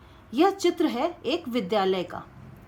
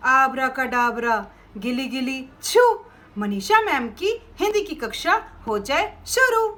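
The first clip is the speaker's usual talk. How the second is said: put-on kids party magician. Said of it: "हमें कुछ बोलना पड़ता है".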